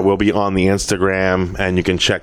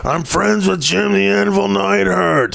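imitating Stan; 9 semitones higher than usual. Quoting fellow comedian Stan.

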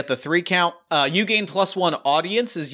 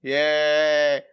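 raised country announcer voice; cowboy accent; 4 semitones higher than usual. Acted. Tex breaking the news of the injury in a cowboy accent. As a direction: work the crowd like a folksy ring announcer. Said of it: "immediately the accent turns on".

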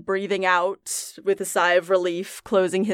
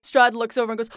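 ordinary talk, nothing marked

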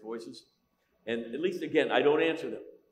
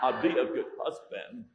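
Forrest Gump. Retold or imitated. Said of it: "when I do Forrest for her".

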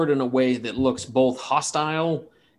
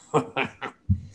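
soft chortle. Acted. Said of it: "he kind of chortles a little bit".

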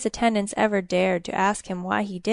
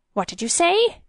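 high-pitched, urgent demand; sharp hiss; 8 semitones higher than usual. A narrator's reading. King to his attendant about the gold, sharply demanding. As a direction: pounce on it, pitch leaping up. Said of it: "he hissed".

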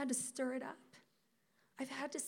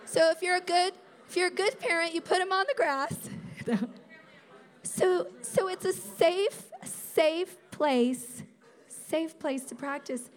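high, loud, laughing preaching; giddy loud emphasis; laughing shout; 5 semitones higher, 10 dB louder than usual. Real, not acted.

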